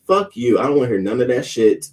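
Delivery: high, loud burst of defiance; retelling an angry comeback, loud at the start; indignant retort. Retold or imitated. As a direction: fire back angrily, pitch jumping up. Acts out angry email reply.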